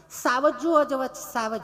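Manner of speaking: high, slow, over-careful city lady voice; prissy educated lady. Retold or imitated. Tourist insisting she wants to see lions, slow and prim. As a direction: draw the words out primly. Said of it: "ચીપી ચીપીને બોલે".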